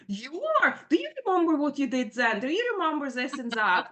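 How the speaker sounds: high, quick retold challenge; pointed, disbelieving comeback; passive-aggressive snapping. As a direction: imitate an incredulous daughter accusing mom. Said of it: "passively aggressively snapping".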